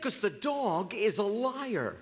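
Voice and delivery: slow, laughing punchline; punchline through laughter. Acted. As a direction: deliver the button while cracking up. Punchline of the joke.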